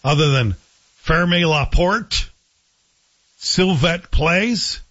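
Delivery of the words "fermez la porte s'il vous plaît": slow, careful classroom French; schoolboy French. Shown as a demonstration. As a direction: sound out the only phrases you learned. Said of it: "Couldn't speak a word other than".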